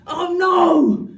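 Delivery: panicked blurt; loud comic cry; loud mock yelp. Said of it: "he'd be like".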